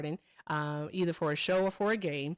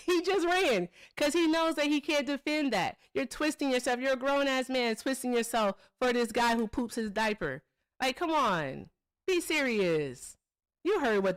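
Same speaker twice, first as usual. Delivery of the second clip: mocking rant; 4 semitones higher than usual. Real, not acted. Mocking the opponent who left.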